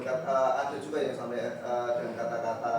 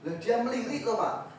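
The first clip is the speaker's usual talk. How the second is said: pupil's excuse; 9 semitones higher than usual. Retold or imitated. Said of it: "Kenapa kamu pukul?".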